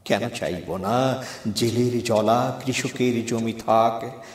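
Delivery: measured, declaimed verse with drawn-out phrase ends; poem recitation. Acted. Poet recites own lines for hosts and listeners, declaimed. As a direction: recite it as a poem, leaning on the refrain.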